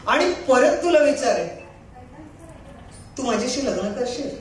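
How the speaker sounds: lightly plaintive stage monologue; tearful monologue. Acted. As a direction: perform a heartfelt plea to a beloved, only a touch weepy. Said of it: "थोडा रडका आहे". (किंचित रडवेल्या सुरातील नाट्यमय स्वगत)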